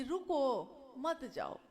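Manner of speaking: "रुको" alone, pause, then "मत जाओ"; pause after रुको. Shown as a demonstration. Speaker repeating his supposed instruction to stay, pause after रुको. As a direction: break after रुको, keeping मत joined to जाओ. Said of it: "मैंने कहा, मान लो".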